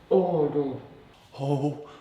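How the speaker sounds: breathless from cold. Real, not acted. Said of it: "just painful".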